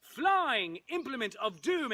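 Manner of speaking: drawn-out, grandly intoned catchphrase; dramatic announcement. Acted. Narrator hails the flying weapon, grandly drawn out. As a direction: stretch it out like a mighty title. Audience chant for the sword.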